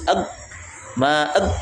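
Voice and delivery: AG stopped dead on the consonant; cut-off sound. Shown as a demonstration. Teacher showing a forbidden reading, cut-off AG. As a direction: chop AG off short. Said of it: "Jangan diputus".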